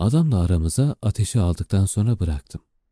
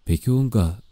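raised, higher urgent question; calling out; 5 semitones higher than usual. Acted. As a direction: call out the question. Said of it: "diye bağırdı Prince".

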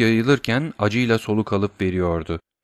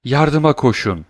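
shout for help; 4 semitones higher, 3 dB louder than usual. Acted. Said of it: "diye bağırdı Valentine".

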